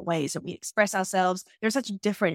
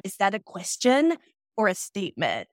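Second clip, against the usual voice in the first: snotty. Retold or imitated. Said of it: "in that really snotty way".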